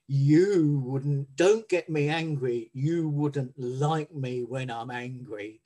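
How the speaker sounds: a hint of the TV line, drawn out; lightly voiced TV doctor warning; Hulk warning quote. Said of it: "Doctor David Banning, and he would say".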